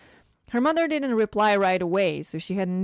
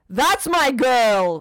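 proud delight; 5 semitones higher, 8 dB louder, much slower than usual. Acted. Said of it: "Cephalia smiled widely".

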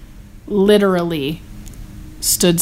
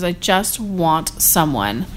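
poetic quote; 3 semitones lower, 3 dB quieter, slower than usual. Retold or imitated. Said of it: "she just gets all poetic".

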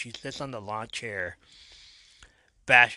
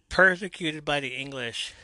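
higher-pitched melodramatic cry; dramatic; 5 semitones higher, 4 dB louder than usual. Retold or imitated. Liberty Bell to the crowd entering the ring, dramatic. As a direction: declaim it with mock drama. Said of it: "it's so dramatic".

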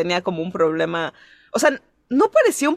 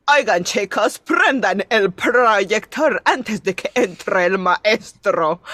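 giggly; much slower than usual. Retold or imitated. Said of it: "Y yo empecé a decir así como de".

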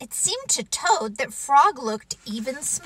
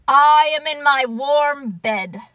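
grumpy protest; 3 semitones higher, 7 dB louder than usual. Acted. Toad refusing to leave his warm bed, grumpy. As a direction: protest stubbornly from under the covers.

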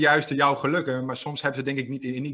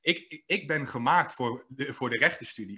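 mock stutter; 3 dB quieter than usual. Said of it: "ik ging zo in zijn droom geloven".

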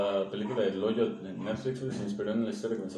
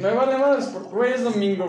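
emphatic exclaim; 11 semitones higher, 7 dB louder than usual. Real, not acted. Bored Sunday, exclaims he doesn't care.

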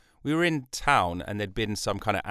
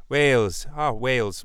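trying out a Welsh lilt; Welsh accent; 2 semitones higher, 5 dB louder than usual. Shown as a demonstration. Podcaster searching for the accent, tentative Welsh. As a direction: feel your way into a Welsh accent. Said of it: "trigger word to get into Wales".

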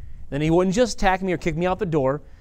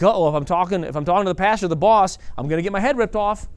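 higher, anxious staffer dreading the boss; a touch of imitated panic; mock fearful worry; 4 semitones higher, 4 dB louder than usual. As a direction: play a nervous employee fearing trouble. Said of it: "people work in fear".

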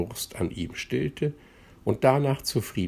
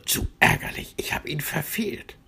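grumbling; 8 semitones higher than usual. A narrator's reading. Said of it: "meckerte Platsch".

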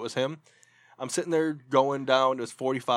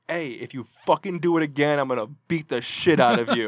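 retold yell; 6 dB louder than usual. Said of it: "And I just yelled".

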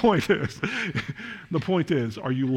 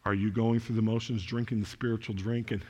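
much softer and lower, intimate; hushed appeal; 5 semitones lower, 6 dB quieter than usual. Acted. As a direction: lean in and ask it quietly. Soft pastoral appeal.

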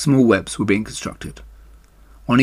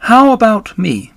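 much higher and louder, an eager tiny voice; little spider; 10 semitones higher, 6 dB louder than usual. Acted. Third baby spider asking Wilbur for a name, high and eager. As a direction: jump in for attention like a small spider.

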